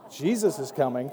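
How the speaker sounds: punchline in a laughing squeaky parrot voice. Retold or imitated. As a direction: squeak it out like a tiny parrot while cracking up. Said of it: "small, squeaky voice".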